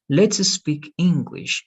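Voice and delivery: Let's speak English said slowly and clearly; slow example. Shown as a demonstration. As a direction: model the sentence slowly for the learner. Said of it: "If I say".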